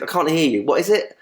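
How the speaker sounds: feigned puzzlement, rising at the end; mock incomprehension. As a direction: pretend you can't make it out. Retold mock can't-hear joke.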